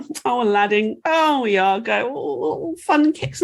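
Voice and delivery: half-hearted fawning coo; mock swooning princess. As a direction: imitate a gullible, easily delighted princess. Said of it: "and she goes".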